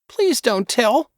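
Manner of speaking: put-on slow, high pleading boy. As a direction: drag out please, begging. Boy begging.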